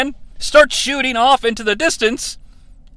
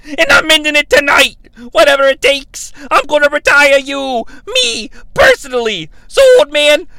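loud, high shouted challenge; furious callout; 5 semitones higher, 3 dB louder than usual. Retold or imitated. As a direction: scream the challenge at Flair. Russo calls out Flair.

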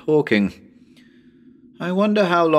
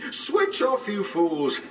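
high, snapping order; mad high command; 10 semitones higher, 3 dB quieter, slower than usual. Acted. To the listeners, a high unhinged snap. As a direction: spit it at them, unhinged.

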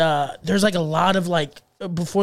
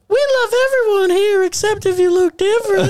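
much higher and louder hammed-up Southern Elmo; a bigoted Southern puppet; Southern redneck Elmo; 14 semitones higher, 5 dB louder than usual. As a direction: Elmo as a redneck host, high and loud twang. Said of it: "Elmo was never like".

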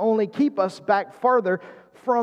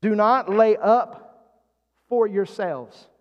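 "Do not lay up", slowly, then a pause before "for yourselves"; slow emphasis; slower than usual. Shown as a demonstration. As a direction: repeat "Do not lay up for yourselves" deliberately, setting "for yourselves" apart. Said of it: "The emphasis here".

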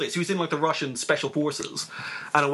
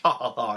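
spoken mock laugh; 4 semitones lower than usual. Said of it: "starts laughing".

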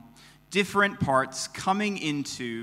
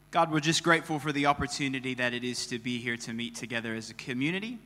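soft, reverent prayer voice; 4 dB quieter than usual. Real, not acted. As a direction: pray quietly and humbly. Pastor prays before sermon.

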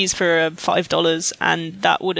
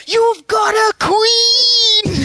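high, drawn-out mock shout of disbelief; amazed waiter; 12 semitones higher, 4 dB louder, much slower than usual. Waiter amazed that British diners have a queen, hammed-up shriek. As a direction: imitate astonishment, wailing the long vowels. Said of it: "constantly amazed at the fact we were English".

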